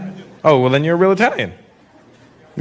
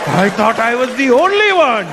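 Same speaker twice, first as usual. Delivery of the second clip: slow, high, hammed-up amazement; mock astonishment, drawn out and high; amazed recognition; 6 semitones higher, slower than usual. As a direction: marvel slowly at finding your own kind. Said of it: "The minute Indian people see another Indian person".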